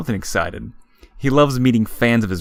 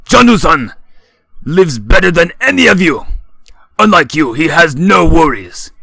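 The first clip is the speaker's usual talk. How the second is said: put-on loud, higher slurred drunk; booming drunken voice; 6 semitones higher, 6 dB louder than usual. A narrator's reading. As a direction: preach it, sloppy and proud. Shoji's drunken speech.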